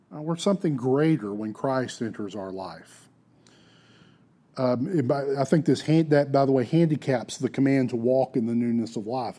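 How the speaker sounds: normal talking voice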